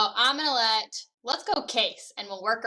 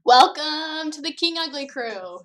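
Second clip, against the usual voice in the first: announcer opening, pitched up; game show host voice; 6 semitones higher than usual. Pretend. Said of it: "let's hear your game show voice".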